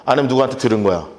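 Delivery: 당당하게. Acted. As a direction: turn the question back with calm authority. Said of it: "정확하게 당당하게 말씀하십니다". (낮고 당당하게 되묻기)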